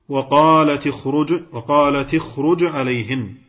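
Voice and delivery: "وقالت" ending in "ti", linked to "اخرج"; kasra on the ta. Shown as a demonstration. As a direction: join "وقالت" to "اخرج" with a short i. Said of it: "كسرت". (نطق تاء "وقالت" مكسورة موصولة بـ"اخرج")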